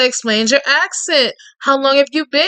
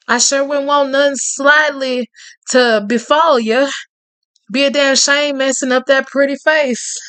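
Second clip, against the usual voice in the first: lightly voiced Cajun man. Reading Tate's lines to the listener in a lightly voiced Cajun charmer's tone.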